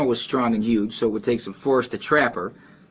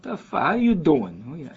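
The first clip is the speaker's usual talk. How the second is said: imitated Chicago Italian neighborhood greeting, pitched up; Chicago neighborhood guy; 6 semitones higher, slower than usual. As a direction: greet a pal in a high Chicago street accent. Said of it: "they talk like".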